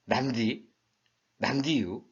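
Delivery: short Chungcheong-style reply, repeated; Chungcheong dialect. Shown as a demonstration. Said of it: "충청도 말로 한다면".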